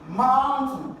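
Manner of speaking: high, loud first syllable in "mountain"; "mountain" called out high and loud, weight up front; stress on first syllable. Shown as a demonstration. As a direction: punch the MOUN in "mountain". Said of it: "you gotta stress the first syllable".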